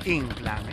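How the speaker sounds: "Inclán" said as ÍNclan, stress on the first syllable; old neighbourhood pronunciation. Retold or imitated. Quoting old neighbours to the host, "Inclán" stressed on the I. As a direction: say "Inclán" as a grave word, stress on the I. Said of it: "los viejos vecinos de este barrio, todos decían".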